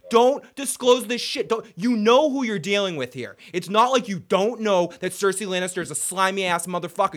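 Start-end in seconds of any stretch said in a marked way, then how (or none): 0.1-3.4 ranting. Real, not acted. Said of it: "I'm gonna go on a fucking Joe rant".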